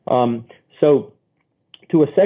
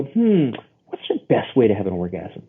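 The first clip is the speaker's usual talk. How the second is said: casual; 2 semitones lower than usual. Shown as a demonstration. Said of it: "You just casual. Casually".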